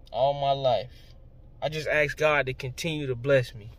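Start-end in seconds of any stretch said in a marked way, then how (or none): 0.1-1.1 slow, drawn-out repeat. Real, not acted. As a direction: stretch "All my life" out slowly, each word weighted. Repeats phrase, slower and softer.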